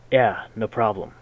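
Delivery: loud gruff growl. Acted. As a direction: bark it out gruffly. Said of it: "I growl".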